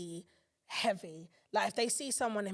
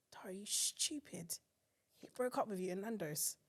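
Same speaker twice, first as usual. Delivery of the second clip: inner voice whisper; 5 dB quieter than usual. Retold or imitated. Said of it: "in my head I'll be like".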